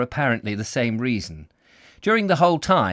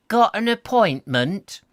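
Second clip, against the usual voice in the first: higher, louder, slow drawled Got an appointment; slow husky drawl; 9 semitones higher, 5 dB louder than usual. Acted. Receptionist greeting a visitor, slow husky drawl. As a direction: stretch it out lazily, husky. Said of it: "she asked in a slow, husky drawl".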